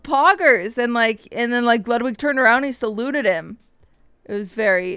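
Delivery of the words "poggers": mild retold yell. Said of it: "he yelled".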